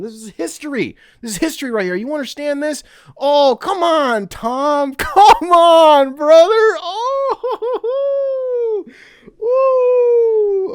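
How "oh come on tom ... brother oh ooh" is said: high, loud laughing cries; happy tears breaking through; real overwhelmed laughter; laughing near tears. Real, not acted. Overcome with joy, laughing.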